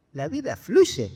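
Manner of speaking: slow, disbelieving repeat; mildly bewildered, words drawn out; baffled echo. Acted. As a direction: echo it back as a puzzled question. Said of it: "lo mira desconcertado".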